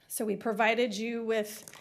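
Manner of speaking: breathless after running in, slow; winded, pushing words out between breaths. Real, not acted. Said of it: "I gotta catch my breath".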